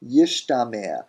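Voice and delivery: yishtamer said carefully, yish then tamer; repeated yishtamer. Shown as a demonstration. Teacher repeating the real form, yishtamer. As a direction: say yishtamer, sh before t. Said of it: "what we get is".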